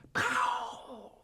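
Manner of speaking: sudden high gobble burst; turkey gobble. Retold or imitated. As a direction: blast it out like a tom gobbling. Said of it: "you just hear".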